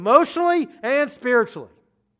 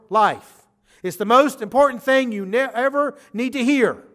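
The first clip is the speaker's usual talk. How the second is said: urgent. Acted. Preacher voicing Jesus urgently.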